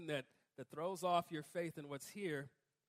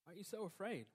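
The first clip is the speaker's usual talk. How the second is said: gentle reply; 6 dB quieter, faster than usual. Pretend.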